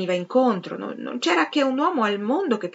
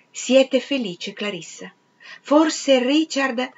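insistent, drawn-out questioning, raised in pitch; urgent demand; 5 semitones higher, 4 dB louder, slower than usual. A narrator's reading. Peter demands an answer from Clarissa, slow and insistent. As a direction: press for an answer, slowly and forcefully. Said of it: "le intimò afferrandola per le spalle".

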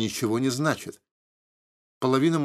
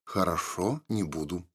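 softer, lower, gentle and smiling; tender; 5 semitones lower, 6 dB quieter than usual. A narrator's reading. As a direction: soothe her with a smile in the voice. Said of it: "ласково улыбнулся я". (ласково, тише и с улыбкой)

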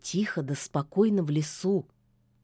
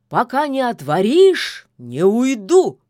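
loud shout through the door; 3 semitones higher, 9 dB louder than usual. A narrator's reading. Koschei shouts at the witch's locked door. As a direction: yell so the whole forest hears. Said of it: "да крикнул так, что, кажется, весь лес услыхал".

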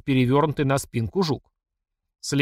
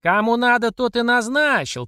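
high, loud bark of a reply; yelling boss; 9 semitones higher, 3 dB louder than usual. Acted. Platsekina keeps yelling at mamasha, high and loud. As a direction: shout her down. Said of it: "продолжал орать Плацекин".

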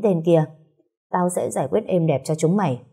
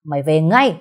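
a mildly raised angry order; father shouting. Acted. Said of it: "Bố cô quát". (người bố quát con gái về nhà, giọng hơi lớn)

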